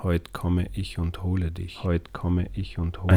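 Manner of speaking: soft, menacing murmur; eerie hushed voice. Acted. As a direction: read it like a quiet threat. Message read as threat.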